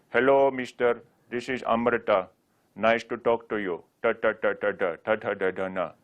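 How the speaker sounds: put-on Indian accent with curled-tongue t and r; playful Indian accent. Shown as a demonstration. Teacher showing a playful way into Sanskrit sounds, Indian accent. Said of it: "imitate an Indian accent".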